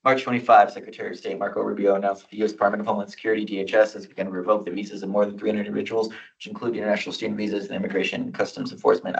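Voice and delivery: rushing through the resolution text; fast reading. Real, not acted. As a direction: read it aloud quickly. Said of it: "I'll try to read as fast as I can".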